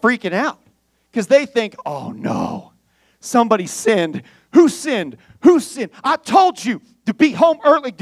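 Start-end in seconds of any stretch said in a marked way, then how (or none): 1.9-7.9 a rising, louder hammed-up freak-out; frantic townsfolk hunting for the sinner; mock panic. Preacher voicing the panicked elders, mock frantic and rising.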